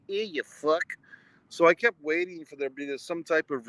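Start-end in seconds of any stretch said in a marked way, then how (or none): 0.1-0.8 Boston accent. Shown as a demonstration. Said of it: "talk like this".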